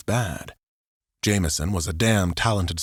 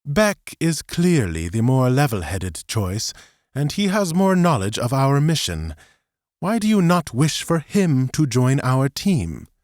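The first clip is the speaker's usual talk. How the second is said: frustrated; 6 semitones higher than usual. A narrator's reading. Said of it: "frustration leaked into his tone".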